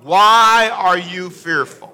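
slow, drawn-out reading of the question; read out slowly. Shown as a demonstration. Preacher reading scripture slowly to the congregation. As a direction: lean on "Why" and take it slowly. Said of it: "read it out loud with me".

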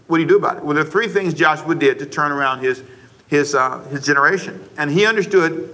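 normal talking voice

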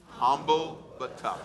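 Humble but tough, said slowly with weight on each word; slow call-and-response. Shown as a demonstration. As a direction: lead the church in repeating it slowly. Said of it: "Can you say that with me".

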